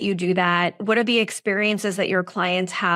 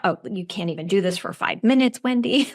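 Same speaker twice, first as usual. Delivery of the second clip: inner critic voice; faster than usual. Retold or imitated. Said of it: "that inner critic starts".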